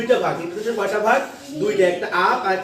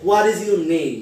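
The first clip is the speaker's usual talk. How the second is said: "What is your name?" with "What" strong, falling to "name"; down voice question; 3 semitones lower, much slower than usual. Shown as a demonstration. Teacher introducing a WH question, falling on "name". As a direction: let "name" drop despite the question. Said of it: "down voice হবে না up voice হবে?".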